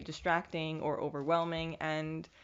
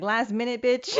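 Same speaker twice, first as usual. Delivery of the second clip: higher and louder, sassy blurt; exasperated outburst; 5 semitones higher, 7 dB louder than usual. Retold or imitated. Vlogger reliving last-minute graduation news, loud and high. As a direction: fling it out in exasperation. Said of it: "I'm just like".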